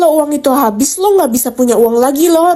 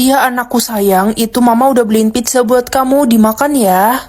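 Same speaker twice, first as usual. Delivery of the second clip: doting mother; 3 semitones lower than usual. Acted. Mother dotes on favourite child.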